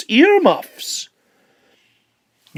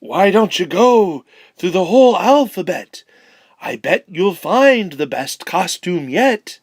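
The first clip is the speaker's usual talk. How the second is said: a different voice, a hidden spider offering advice; sly helpful suggestion from above. Acted. Spider Babu calling down to the penguin, in a changed voice. Unseen spider speaks from hiding.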